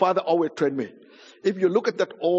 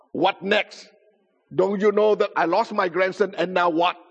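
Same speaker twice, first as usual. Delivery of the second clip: higher, emphatic acted complaint; a touch of exasperation at one more visitor; mildly exasperated; 3 semitones higher than usual. Grandfather to witch doctor at door, mildly exasperated.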